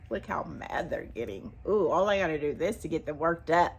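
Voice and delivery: soft, gleeful mock child voice; whisper-quiet mock kid enjoying the fuss; lightly mocking a kid who enjoys the fuss.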